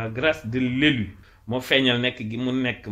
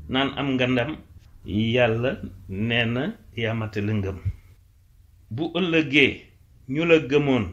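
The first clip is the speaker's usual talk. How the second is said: poem recitation. Acted. Teacher reciting a Wolof praise poem, declaimed. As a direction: declaim each short line, pausing after it.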